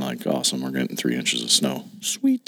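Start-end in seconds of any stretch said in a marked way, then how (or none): 2.0-2.5 sarcastic sweet. Real, not acted. Sarcastic about snow.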